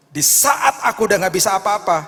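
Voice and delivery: loud, high proclamation; preaching shout. Real, not acted. Preacher proclaiming to the congregation, loud. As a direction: drive the point home.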